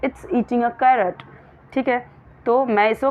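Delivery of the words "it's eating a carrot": slow contracted read. Shown as a demonstration. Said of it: "मैं ऐसे भी बोल सकती हूँ".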